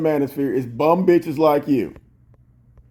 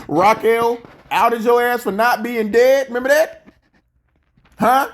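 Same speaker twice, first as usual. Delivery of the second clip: taunting; 5 semitones higher than usual. Real, not acted. Taunting with old fight.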